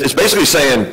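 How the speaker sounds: normal talking voice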